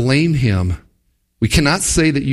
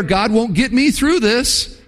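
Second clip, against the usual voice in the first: despair; 9 semitones higher than usual. Pretend. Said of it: "I could give in to despair".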